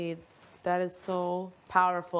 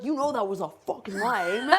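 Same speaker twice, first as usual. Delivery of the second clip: laid-back surfer guy; lightly voiced surfer dude; 2 semitones higher, 5 dB louder than usual. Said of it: "He sounds like a surfer dude".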